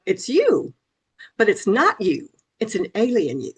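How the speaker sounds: light imitation of a British accent. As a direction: quote the husband in a hint of a British accent. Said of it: "in his British accent".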